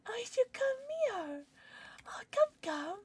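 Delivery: high whispered coaxing. Real, not acted. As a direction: whisper to lure it over. Coaxing the pet.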